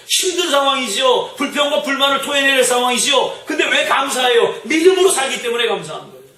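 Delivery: high, forceful pulpit questioning; impassioned preaching. Real, not acted. Preacher challenging the congregation about gratitude in hardship, impassioned.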